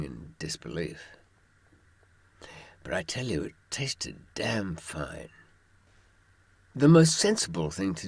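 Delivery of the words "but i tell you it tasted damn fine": confiding aside. Real, not acted. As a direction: lean in and let them in on a secret. Confiding punchline after the dog story.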